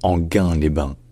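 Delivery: Anguin-les-Bains said "an-GAIN-lay-ban"; Anguin-les-Bains with hard g and nasal vowel; like the word gain. Shown as a demonstration. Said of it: "il faut la lire comme le mot gain".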